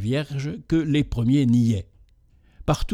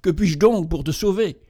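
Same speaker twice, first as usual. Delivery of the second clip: high, alarmed outcry; cried out; 5 semitones higher than usual. Acted. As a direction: cry out in fright. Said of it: "s'écria".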